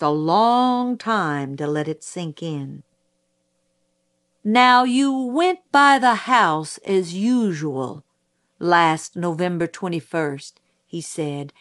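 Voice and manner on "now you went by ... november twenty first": deliberate, lightly pressing prosecutor voice; pointed prosecutor. Acted. Prosecutor cross-examines witness.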